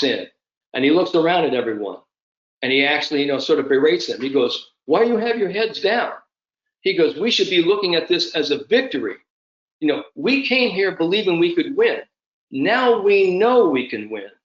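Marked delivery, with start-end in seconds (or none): 4.9-14.3 put-on higher, urgent pep talk in Spanish-accent-free voice; rallying the team. Seve rousing the beaten team, high and urgent. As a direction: lift their heads up, rousing.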